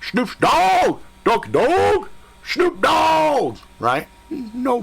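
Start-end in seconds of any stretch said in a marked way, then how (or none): 0.0-3.6 high playful yelling of the dog's name; joking yell. Retold or imitated. The speaker jokingly calling the beagle as Snoop Dogg, high yell. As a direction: yell the name to lighten the tension. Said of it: "So I'm all yelling".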